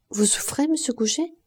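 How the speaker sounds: whispered question, monsieur lifted high; murmured. A narrator's reading. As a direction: breathe it gently at his bedside. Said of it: "murmura-t-elle".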